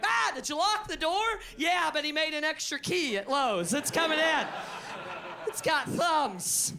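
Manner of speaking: hammed-up fear of a baboon at the door; panicked homeowner. Homeowner panicking about a baboon at the door. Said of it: "a baboon is like".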